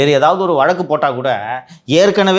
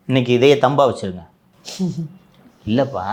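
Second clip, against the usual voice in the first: normal talking voice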